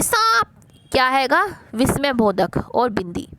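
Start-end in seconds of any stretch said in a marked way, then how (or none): 0.0-0.5 high-pitched acted cry of alarm; mock startled cry. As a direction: imitate grandmother crying out in sudden fright. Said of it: "नानी चीख उठी". (डरकर चीखने का अभिनय)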